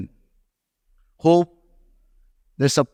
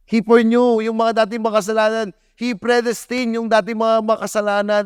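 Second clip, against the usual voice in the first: forceful preaching; 8 semitones higher than usual. Real, not acted. Repeated climax, loudest.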